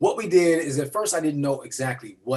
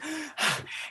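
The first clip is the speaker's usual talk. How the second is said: breathless gasp; 13 semitones higher, 9 dB quieter than usual. Retold or imitated. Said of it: "she's yelling and out of breath".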